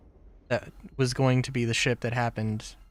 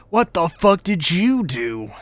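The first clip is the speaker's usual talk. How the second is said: mock outraged; 5 semitones higher, 5 dB louder than usual. Imagined client reacting to crash.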